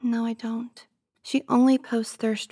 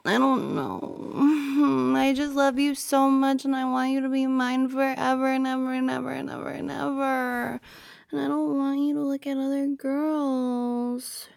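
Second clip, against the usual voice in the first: clingy whine. Acted. Girlfriend wants partner hers forever, clingy whining. Whining declaration of possessive love.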